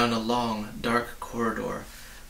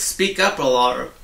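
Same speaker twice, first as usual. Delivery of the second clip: loud, gruff threat; threatening; 2 semitones higher, 6 dB louder than usual. Acted. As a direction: threaten the whole crowd. Policeman threatens crowd.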